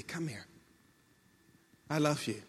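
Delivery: hushed reassurance; tender invitation. Acted. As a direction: draw them close very gently. God tenderly calling, voiced by preacher.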